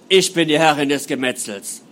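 loud, proud demonic boast; menacing demonic voice. Acted. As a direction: declare it like a demon queen. Possessed patient threatens doctor.

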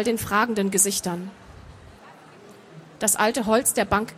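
measured audiobook narration; story narration. A narrator's reading. Author reading her fantasy novel to an audience, measured narration. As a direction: read the story out evenly and composed.

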